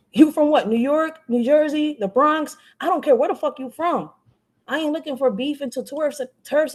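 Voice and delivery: fired-up live stream taunt; heated taunt. Real, not acted. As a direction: sneer at where he's from. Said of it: "Very passionate when I talk".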